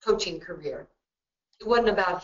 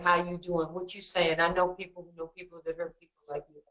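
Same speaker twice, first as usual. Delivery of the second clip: lightly imitated New York tough-guy accent, a bit quicker; a hint of a New York wise guy, half joking; 4 dB quieter than usual. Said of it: "start talking like this".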